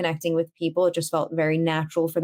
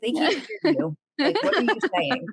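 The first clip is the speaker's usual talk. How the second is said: exasperated at screen; 7 semitones higher than usual. Retold or imitated. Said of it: "then I was like".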